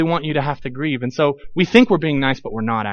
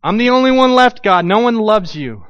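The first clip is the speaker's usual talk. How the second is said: whiny complaint; 5 semitones higher, 3 dB louder than usual. Pretend. Voicing Elijah's complaint.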